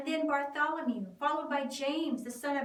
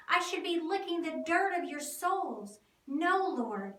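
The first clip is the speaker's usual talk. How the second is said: loud, raised pleading refusal; impassioned protest; 5 semitones higher, 4 dB louder than usual. Acted. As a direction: protest with fervour, unworthy. Peter protests foot washing.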